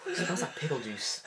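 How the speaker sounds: disgusted laughing shout. Real, not acted. Reacting to gross drink.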